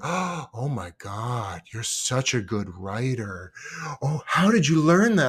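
drawn-out gushing admiration, imitated; mock awe. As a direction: play an awestruck classmate. Acted admiring classmates on his floor.

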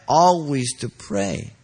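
"always" drawn out slowly with emphasis; stress on always. Shown as a demonstration. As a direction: lean slowly on the word "always". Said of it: "lay the emphasis on the word".

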